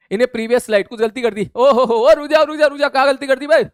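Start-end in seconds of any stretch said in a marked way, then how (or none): 1.5-3.6 loud startled ओ रुक जा, higher; half-joking stop, hold on; mock alarm. Real, not acted. Teacher reacts to chat mistake. (चौंककर ज़ोर से रोकना)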